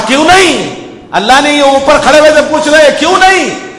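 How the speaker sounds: rising insistence on why not; voice of God asking. Acted.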